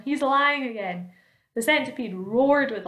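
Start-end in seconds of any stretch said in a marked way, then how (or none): 0.0-1.1 higher, slow accusation; mild shriek. A narrator's reading. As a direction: accuse him in a raised, drawn-out voice. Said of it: "shrieked the earthworm".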